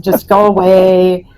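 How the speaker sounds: slow, mock-cranky dismissal. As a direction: imitate a grumpy woman, dragging the words. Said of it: "she gets real cranky".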